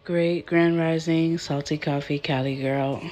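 raspy just-woke-up voice; morning rasp, just out of bed. Real, not acted. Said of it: "I still got that raspy, just woke up voice".

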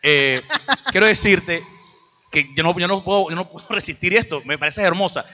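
lightly voiced charming client asking her away; suave client's pitch. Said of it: "y un día te dice".

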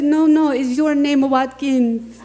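barely holding back laughter while quoting; laughing quote. Retold or imitated. The speaker quotes the airport agent while laughing loudly.

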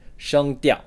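"声调" high and level, then falling sharply; first tone, fourth tone. Shown as a demonstration. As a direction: hold "声" level high, drop "调". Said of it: "the first tone, the flat tone".

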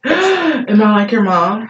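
mock gasp. Real, not acted. Mock shock at the comparison.

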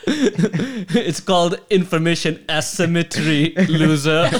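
put-on drawn-out German accent through laughter; mock German accent. Rich winner taunting an old acquaintance, mock German accent. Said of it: "He has a German accent".

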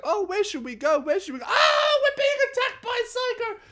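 high falsetto building to a loud shriek; mock panicking girl. Mocking girlfriend and friends under attack, shrieking falsetto.

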